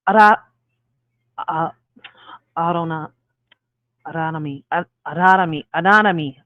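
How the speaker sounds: halting, stumbling tries at "anatomy"; real tongue twist, trying the word piece by piece; tongue-tied. Real, not acted. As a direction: grope for "anatomy" with long pauses and restarts. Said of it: "Don't mind my tongue twisting".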